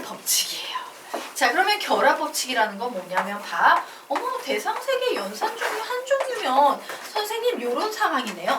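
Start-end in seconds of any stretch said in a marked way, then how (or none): 4.1-8.5 high-pitched mock amazement; surprised student. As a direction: play an astonished pupil, pitched up. Acting out a student noticing the case. (깜짝 놀란 학생 흉내, 높은 목소리)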